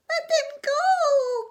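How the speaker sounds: high, loud, slow chorus plea; crying out. Acted. Young frogs crying out at the hawk, high and loud. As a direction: wail it as a crowd of little frogs. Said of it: "cried nine hundred ninety-nine young frogs".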